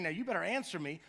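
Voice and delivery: a mild demanding tone toward God; understated impatient demand. Retold or imitated. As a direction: put a light edge of demand on better. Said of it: "he's not demanding, he's not angry at God".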